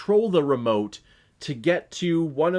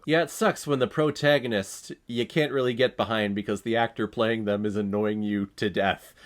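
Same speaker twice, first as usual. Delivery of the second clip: usual speaking voice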